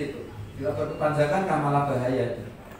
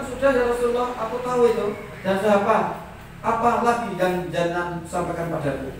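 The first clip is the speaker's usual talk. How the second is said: higher, louder plea for more; insistent questioning; 4 semitones higher, 4 dB louder than usual. Retold or imitated. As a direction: press eagerly for another lesson. Acts out companion pressing Rasulullah again. (mendesak bertanya dengan suara tinggi)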